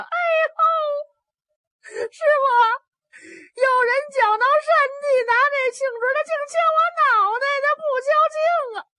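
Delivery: put-on high, loud wailing boy; crying child. Novice boy wails to his master after being hit, high crying. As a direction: bawl for the master like a struck child.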